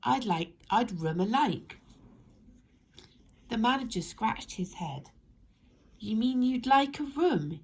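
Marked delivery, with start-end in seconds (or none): 0.0-1.8 Topsy-Turvy voice. Acted. Topsy-Turvy speaks backwards. 6.0-7.6 a louder, higher, puzzled manager. Acted. Manager puzzling out the odd guest, baffled.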